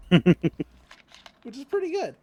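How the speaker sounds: milk the line, slow and loud as a running joke; drawn-out mock verdict. Deadpan running-gag verdict.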